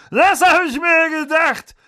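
loud, high, slow bossy aunt; Aunt Marge voice. A narrator's reading. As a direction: boom it out like a tipsy aunt.

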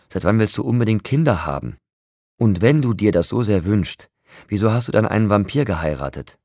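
loud, heated reproach; angry. A narrator's reading. Friend angrily confronting her over the baby, loud. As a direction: let the anger break out. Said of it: "Mein Zorn erlosch".

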